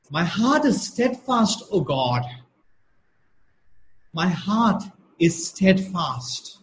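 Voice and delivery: slow, solemn reading of the psalm; measured psalm reading to the congregation; scripture reading. Acted. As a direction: read it like a prayer of praise. Pastor reads psalm verses aloud.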